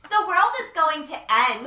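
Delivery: bright, high and loud doom line; super preppy voice. Retold or imitated. Monologue line flipped into a high preppy voice. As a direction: say the end of the world like a cheerleader. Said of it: "super, like, like, preppy".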